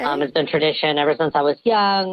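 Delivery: electronically disguised voice; voice changer. Real, not acted. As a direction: speak through a voice changer. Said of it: "even with the voice changer".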